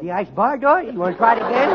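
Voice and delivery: ordinary talk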